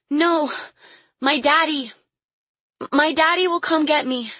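put-on high-pitched, insistent child's voice; protesting little girl. A narrator's reading. Caged Lily defies her captor, protesting. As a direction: protest in a small girl's high voice.

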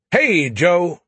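loud, high cheerful shout. A narrator's reading. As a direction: yell it out happily. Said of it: "he shouted".

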